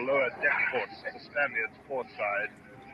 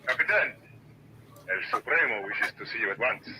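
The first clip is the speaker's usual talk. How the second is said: put-on Spanish accent; 2 semitones lower than usual. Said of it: "that accent's worse than mine".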